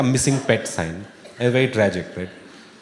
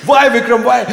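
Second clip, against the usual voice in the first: melodramatic plea; 11 semitones higher, 6 dB louder than usual. Pretend.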